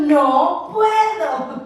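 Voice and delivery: very slow, whiny refusal; drawn-out whine. Retold or imitated. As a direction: stretch the excuse lazily. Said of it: "Pero yo digo". (excusa lenta y quejosa)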